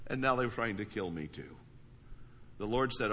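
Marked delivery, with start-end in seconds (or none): 0.1-1.6 insistent run-on recital; rehashed grievance in a raised voice; replayed complaint. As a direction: keep it going like a record replaying. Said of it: "the record just keeps playing".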